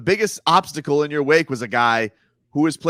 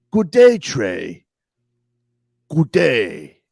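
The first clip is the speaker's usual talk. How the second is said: mock farewell; 3 semitones lower, 4 dB louder, much slower than usual.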